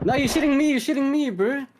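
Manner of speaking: high, loud yell at a teammate; alarmed shout. Real, not acted. Teammate shooting him by mistake.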